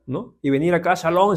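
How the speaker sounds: normal talking voice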